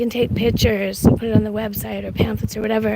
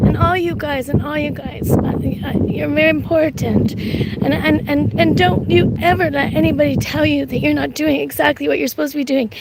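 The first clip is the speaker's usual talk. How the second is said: earnest, emotional encouragement; heartfelt and moved, stumbling over the start; getting emotional; 2 semitones higher than usual. Real, not acted. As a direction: reassure them from the heart. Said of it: "I'm getting emotional".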